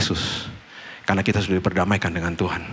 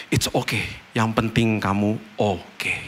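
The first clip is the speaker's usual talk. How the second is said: gentle reassurance; 4 dB quieter, slower than usual. Retold or imitated. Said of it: "father comforting son".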